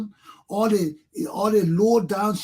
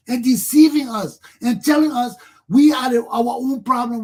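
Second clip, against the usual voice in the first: heated outburst; 3 semitones higher, 6 dB louder than usual. Real, not acted. Angry rant about deception.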